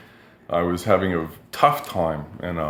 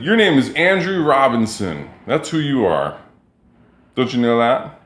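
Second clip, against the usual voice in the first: higher, matter-of-fact teasing; imitating Jeffrey; 5 semitones higher than usual. Jeffrey reading the license back to him, mock-patient. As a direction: state it like the obvious answer. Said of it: "And he said".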